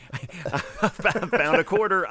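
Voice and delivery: high, slow squeaky joke voice; squeaky mock voice. Joking about finding a gun, in a high slow squeaky voice. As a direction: pipe it up high and drawn out, like a kid.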